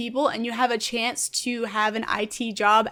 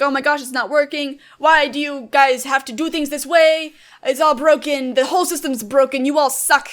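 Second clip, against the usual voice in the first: freaking out; 3 semitones higher, 5 dB louder than usual. Retold or imitated. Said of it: "Some people will be freaking out".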